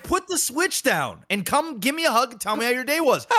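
high, laughing retold demand; laughing insistence. Dad retelling ordering his son off the Switch, laughing. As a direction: insist while cracking up.

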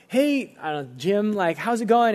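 bright forced friendliness on a phone call; chirpy awkward pastor calling; cheery pastor. Retold or imitated.

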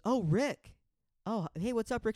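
high, loud mock-delighted hail; excited greeting. Sarah greeting Rick on her live, high excited imitation.

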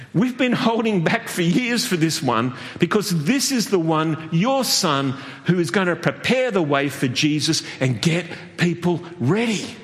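lightly voiced God, playful and high; mock divine promise to an old priest; voicing God. Preacher playing God to Zechariah, playful.

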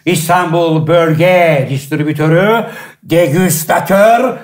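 booming showman introduction, slowing on titles; announcer intro. Acted. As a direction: announce the guest like a ringmaster. Host's grand guest introduction.

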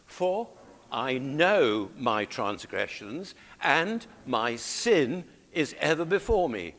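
measured, deliberate psalm reading; congregational scripture reading. Acted. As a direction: lead the congregation through the verse, slowly. Leads congregation reading the verse.

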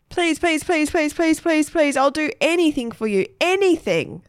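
high, rapid pleading pleases; begging. A narrator's reading. Margaret begs Egbert for his pen, high and pleading. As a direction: wheedle like a desperate little sister.

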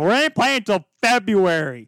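mildly hammed-up mock quote; mouthing off, imitated. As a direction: imitate someone running his mouth, a touch exaggerated. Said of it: "started shooting his mouth off".

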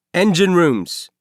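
lightly voiced ship elevator announcing the floor; elevator announcement. A narrator's reading. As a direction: call out the stop like an automated elevator. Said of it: "the elevator announced".

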